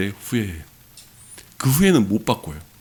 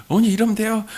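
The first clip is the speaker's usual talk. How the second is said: high, raised angry retort; angry shout; 11 semitones higher than usual. Retold or imitated. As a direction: repeat the angry outburst. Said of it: "막 화를 내셨는데".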